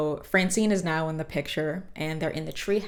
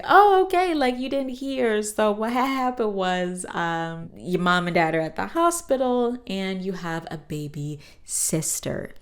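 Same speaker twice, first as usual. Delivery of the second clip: much higher, louder gushing grandma; excited grandma voice; 3 semitones higher, 4 dB louder than usual. Retold or imitated. Grandma Thora telling the kids the news, gushing high. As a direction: burst in like a thrilled granny.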